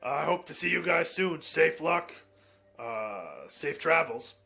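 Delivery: a touch of a cheery send-off; lightly voiced friendly character. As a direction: lightly play a grateful ally saying goodbye.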